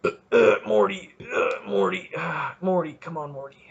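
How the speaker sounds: lightly done rambling Rick voice, stammering Morty; a hint of a frantic cartoon scientist; Rick Sanchez impression. Podcaster doing his Rick voice for listeners, lightly done, stammering. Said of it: "That's my Rick Sanchez voice".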